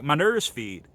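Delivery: lightly imitated Memphis accent; a touch of Southern Memphis dialect. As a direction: mimic a Memphis rapper's vowels. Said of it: "it's Memphis dialect".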